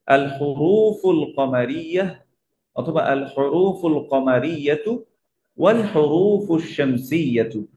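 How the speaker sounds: slow, careful reading of the Arabic terms; measured classroom reading. Shown as a demonstration. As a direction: read the terms out slowly for the class. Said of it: "teacher reads terms slowly".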